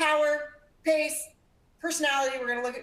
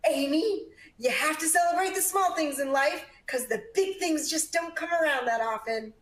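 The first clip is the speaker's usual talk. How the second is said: a touch higher, the mother's lightly voiced advice; mom's voice; 5 semitones higher than usual. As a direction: lift the pitch a little as mom. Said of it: "just a little higher".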